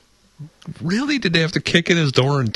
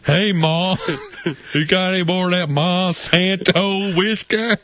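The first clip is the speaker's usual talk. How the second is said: mock hillbilly son; 5 semitones higher than usual.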